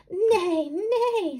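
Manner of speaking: loud high whinnying neigh; whinny it out like a horse. Acted. Reading the horse's loud neigh. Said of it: "said the horse".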